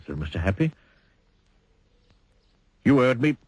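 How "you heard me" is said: snapped. Acted. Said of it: "snapped Mister Grumpy".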